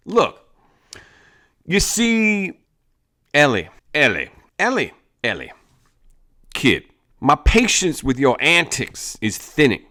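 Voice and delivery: high, loud swaggering gang boss. Acted. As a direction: lord it over the kid. Gang leader lectures Ellie.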